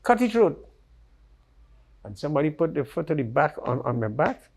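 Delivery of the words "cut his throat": higher, louder retold command; attacker's urgent order, raised and higher. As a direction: bark it out like the attacker giving the order. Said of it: "because they have hunters around here".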